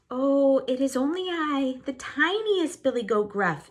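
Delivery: high, tiny goat voice; very small voice. Acted. Smallest goat pleading with the troll in a tiny high voice. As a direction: make yourself sound tiny and harmless. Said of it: "in a very small voice".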